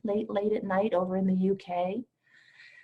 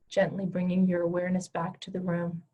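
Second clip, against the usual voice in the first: guided meditation. Acted. Leads a guided heart meditation.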